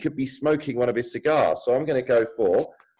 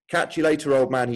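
higher, louder teasing call; cheeky brotherly shout; cried out; 4 semitones higher, 3 dB louder than usual. Acted. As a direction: call it out to his brother as you leap. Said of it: "he cried".

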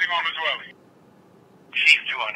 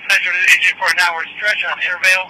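firefighter command; 3 semitones higher, 6 dB louder than usual. Real, not acted. Urgent fireground radio report.

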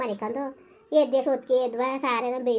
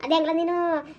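scolding; 3 semitones higher than usual. Acted. Mother berates son about the missing wife and loan, angrily. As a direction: tear into him over the debt.

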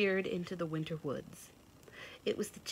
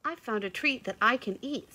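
put-on pleased young doe; 6 semitones higher, 4 dB louder than usual. A narrator's reading. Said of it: "said the young doe".

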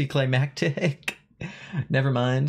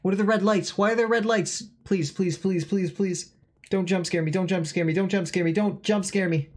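tense, pleading and higher; begging the game for mercy; scared horror game streamer; 4 semitones higher than usual. Real, not acted. Chase scene, begging not scared.

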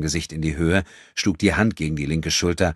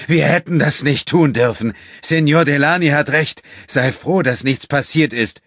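shaking voice; 10 semitones higher, 9 dB louder than usual. A narrator's reading. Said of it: "Seine Stimme bebte".

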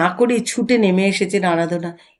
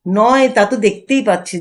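clenched, restrained anger; through gritted teeth; 3 dB louder than usual. Acted. Wife seething at her husband, through gritted teeth. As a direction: hold the fury back behind the teeth. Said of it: "দাঁতে দাঁত চেপে উচ্চারণ করেন".

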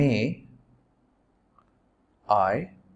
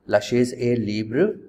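"La chaise est libre" said slowly, word by word; slow dictation; slower than usual. Shown as a demonstration. Teacher dictating the French sentence, slow and clear. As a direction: read it out slowly for writing down. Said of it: "how would you write".

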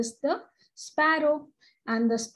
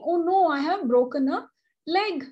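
retold panicked cry; 5 semitones higher, faster than usual. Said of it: "she starts immediately shouting".

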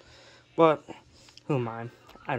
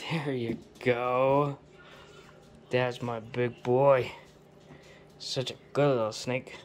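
slow whispered praise for the snake; 2 semitones lower, slower than usual. Real, not acted. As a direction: coo it gently and slowly. Soothing pet snake.

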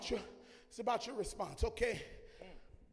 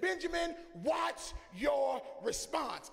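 voice of God; 4 semitones higher, 3 dB louder, slower than usual. Retold or imitated. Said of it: "He said".

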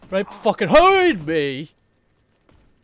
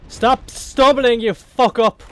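angry yell; 4 semitones higher, 4 dB louder, slower than usual. Real, not acted. Player yelling at his character.

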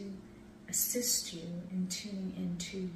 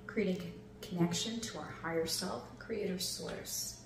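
airy breathy mystical healer. Acted. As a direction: breathe them gently into calm. Leads a breathing meditation.

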